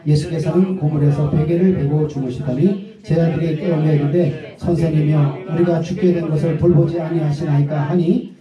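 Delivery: measured Bible reading voice; steady, reverent reading of scripture. Acted. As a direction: read the verses with solemn care.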